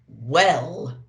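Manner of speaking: a mild booming Santa; lightly voiced jolly Santa. A narrator's reading. Santa asking the elf about Devon, mildly booming. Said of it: "boomed Santa".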